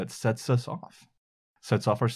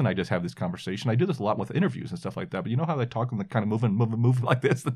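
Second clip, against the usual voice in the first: lively conversational register, higher pitch, sped up; 2 semitones higher than usual. Describing how they talk in conversations and interviews, the speaker demonstrates: higher register, talking quicker. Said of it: "I talk in a higher register and I talk quicker, kind of like this".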